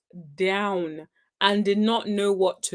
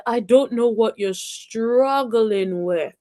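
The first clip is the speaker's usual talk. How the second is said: quoted put-down; slower than usual. Retold or imitated. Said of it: "She said".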